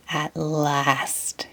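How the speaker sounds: whisper. Acted. SpongeBob opens the box, soft awed whisper. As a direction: breathe it out in awe. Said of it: "he whispered".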